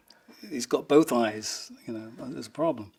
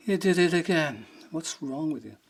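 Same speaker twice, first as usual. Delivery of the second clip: imitated disgust; 4 semitones higher than usual. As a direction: mimic a singer disgusted with his drummer. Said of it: "like, full of disgust".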